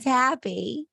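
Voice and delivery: high, put-on happy dwarf voice. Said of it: "I had to put on my happy voice".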